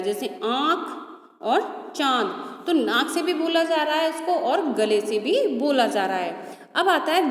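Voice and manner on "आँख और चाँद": आँख and चाँद slowly, the vowels voiced through nose and throat together; nasalised vowel demo. Shown as a demonstration. Teacher demonstrating chandrabindu to children, slowly. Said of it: "इसका उच्चारण नाक और गले दोनों से होता है".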